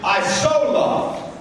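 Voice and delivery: slow, drawn-out, ardent; love on steroids, slowed and breathy; intense love. Retold or imitated. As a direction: stretch every word with fervour. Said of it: "This is a".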